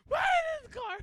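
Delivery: high, loud, panicked squeal; terrified cheerleader squeaks at the scary man. Retold or imitated. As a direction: shriek it like a terrified teen girl. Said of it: "then she goes".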